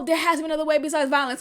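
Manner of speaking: fast dismissive parroting; mocking the pacifist line; mocking quote. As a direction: rattle off their line with scorn. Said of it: "This whole".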